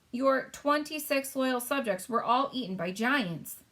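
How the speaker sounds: slow, high queen voice; the Queen, matter-of-fact. Acted. Queen telling the King about giants, slow and regal. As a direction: announce it evenly.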